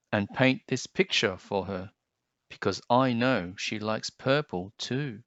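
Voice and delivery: expressive storybook read-aloud; gentle picture-book narration; reading to children. Acted. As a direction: read it like story time for kids.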